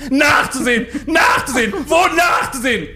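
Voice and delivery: screaming in a high-pitched fury; berserk rage. Acted. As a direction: rant at the staff, loud and high. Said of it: "Zadek bekam einen Tobsuchtsanfall".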